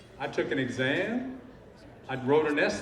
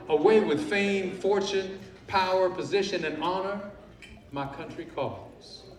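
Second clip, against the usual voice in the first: corny patriotic declamation; 4 semitones higher than usual. Retold or imitated. First public attorney quoting his own patriotic article, corny declamation. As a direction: declaim it grandly, easing off at the end. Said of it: "corny and cliche".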